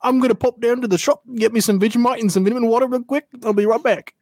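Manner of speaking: badly faked Cockney that slides into Australian; wobbly comic Cockney-Australian accent; mock Cockney accent. Shown as a demonstration. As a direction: attempt Cockney and land nearer Australian. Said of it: "swap to my Cockney accent".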